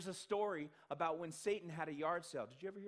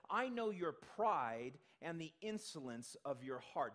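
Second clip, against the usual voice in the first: slow, deliberate reading of the verse; slow scripture quote. Shown as a demonstration. Scene: preacher quotes Eliab to the congregation, slow and deliberate. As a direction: read it slowly, weighing each word. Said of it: "where he says".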